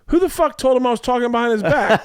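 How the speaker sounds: mock-furious yell at a caller; imitating angry comic. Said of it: "And he goes".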